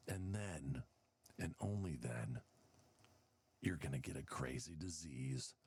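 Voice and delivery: spook the viewers like a hammed-up horror news report; mock alarmist newscaster. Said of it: "The next thing you hear is".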